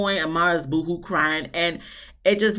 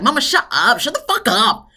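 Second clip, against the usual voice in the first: higher-pitched exasperated snapping at mom; annoyed; 4 semitones higher, 4 dB louder than usual. Retold or imitated. Imitating a daughter telling her mom to stop, annoyed. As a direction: act out a fed-up daughter cutting in. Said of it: "Amara's just getting annoyed".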